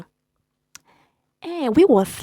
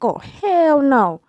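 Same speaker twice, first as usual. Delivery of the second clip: outraged disbelief; 4 semitones higher, 4 dB louder, much slower than usual. Retold or imitated. Ex knocks at midnight.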